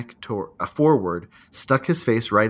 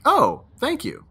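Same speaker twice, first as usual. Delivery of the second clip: mock grateful; 14 semitones higher, 4 dB louder, slower than usual. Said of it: "for you to be like".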